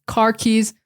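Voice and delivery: "car keys" with no r, like "cah keys"; Boston accent. Shown as a demonstration. Teacher contrasting plain and Boston "car". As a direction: drop the r in "car", Boston style. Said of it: "would be car keys".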